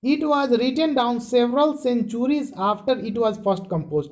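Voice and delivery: very slow, deliberate reading, each word spaced; slow textbook reading. Shown as a demonstration. Teacher reading the textbook line to students, very slow. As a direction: read it out so students can follow every word.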